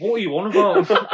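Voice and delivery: high, loud question through laughter; laughing disbelief. Retold or imitated. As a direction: ask it cracking up. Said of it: "I'm there laughing".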